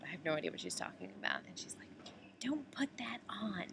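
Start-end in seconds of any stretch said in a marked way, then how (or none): 2.4-3.6 high but hushed mock scolding; retold ranting. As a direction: imitate a stranger's fussy rant, pitched high. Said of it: "ranting and raving".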